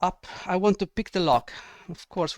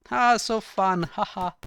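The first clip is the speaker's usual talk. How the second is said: sarcastic; 4 semitones higher, 4 dB louder than usual. Real, not acted. Sarcasm about endless battle.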